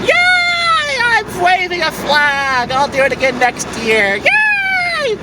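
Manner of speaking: squeaky sarcastic cheerleader voice; mocking performative ally. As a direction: play a shallow flag-waver, gushing and empty. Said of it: "You're just going".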